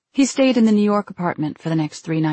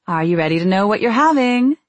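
cheery sing-song; 2 semitones higher, 4 dB louder than usual. Acted. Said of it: "in her cheery sing-song voice".

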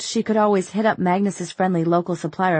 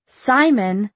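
loud scolding call; exasperated; 4 semitones higher, 5 dB louder than usual. Acted. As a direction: snap his name, exasperated.

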